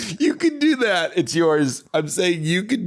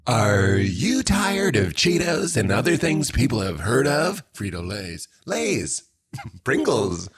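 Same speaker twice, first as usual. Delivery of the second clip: mock commercial voice; 2 semitones lower than usual. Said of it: "What does that sound like?".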